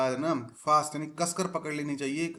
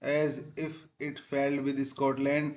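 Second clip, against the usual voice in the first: very slow reading; much slower than usual. Shown as a demonstration. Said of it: "teacher reads text slowly".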